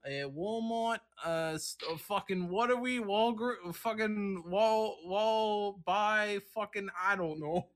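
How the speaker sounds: faltering mock-Australian ad pitch, losing the thread; muddled Australian accent. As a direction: do a bad Australian pitchman fumbling the store name. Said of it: "morphing into Australian man had a stroke".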